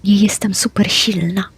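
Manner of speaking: unvoiced whispered defence; whispered answer while sneaking; whispered reply. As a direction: whisper back a little defensively. Characters whisper in warehouse.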